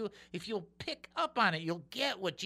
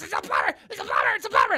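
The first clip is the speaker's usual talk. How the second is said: loud shouts leaping high; frantic yelling; 12 semitones higher, 7 dB louder, much faster than usual. Acted. Plumber yells at parrot before keeling over, frantic high shout. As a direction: scream it over and over, at wit's end.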